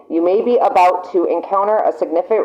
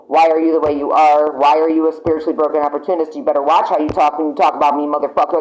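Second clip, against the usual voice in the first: imitating the querent; 3 semitones lower, faster than usual. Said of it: "you are saying".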